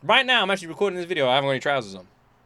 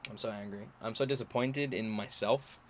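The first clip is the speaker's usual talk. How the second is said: deflated murmur; 5 semitones lower, 11 dB quieter than usual. Real, not acted.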